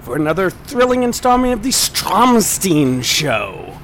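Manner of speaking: put-on hammy German accent, slow and big; mock German announcer, slow. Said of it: "My German accent should really be better".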